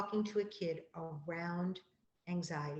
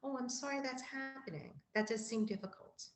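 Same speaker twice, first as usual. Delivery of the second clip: sympathetic; 5 semitones higher, 5 dB quieter than usual. Shown as a demonstration.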